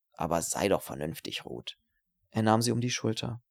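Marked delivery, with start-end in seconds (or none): 0.1-1.8 wheedling. Acted. Wheedles the woman refusing him.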